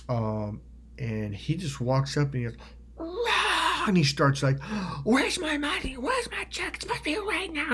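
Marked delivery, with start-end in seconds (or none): 3.0-3.9 high roar of sudden fury; imitated rage roar. Friend suddenly going berserk, imitated roar. 5.0-7.7 imitated high-pitched raging demand; berserk ranting. Friend demanding his money from a woman, imitated berserk rant. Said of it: "he's just fucking berserking".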